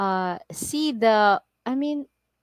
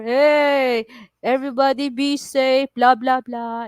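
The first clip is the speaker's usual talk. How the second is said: mock safety announcer; 3 semitones higher, 4 dB louder than usual. Mimics a public safety warning.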